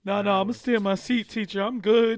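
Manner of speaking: loud, refusing student; lightly voiced kid refusing; stubborn student.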